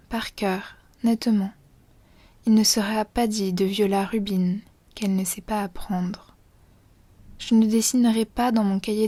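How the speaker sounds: measured, even poetry recitation with pauses between lines; poem reading. Acted. Reading a schoolgirl's Latin-notebook poem to listeners, poem recitation. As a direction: read the verses evenly, line by line. Reads the poem aloud in full.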